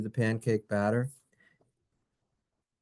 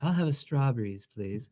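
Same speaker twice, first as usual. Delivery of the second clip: mock order; 3 dB quieter than usual. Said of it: "Is that a drink?".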